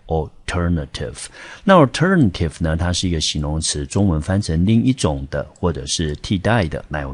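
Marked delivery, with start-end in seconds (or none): 0.1-1.3 alternative with the stress on TER; 第二音节重音. Shown as a demonstration. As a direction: lean on the second syllable of alternative, TER. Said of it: "在第二个音节". (alternative把重音放在ter上)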